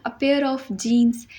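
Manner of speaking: a pair of shoes said very slowly, the last one whispered; slow example. Shown as a demonstration. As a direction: stretch each word out slowly. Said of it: "जैसे हम English में बोलते हैं ना". (धीरे धीरे उदाहरण)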